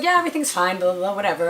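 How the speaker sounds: lightly voiced doctor waving it away; mock dismissive doctor. Doctor brushing off patient.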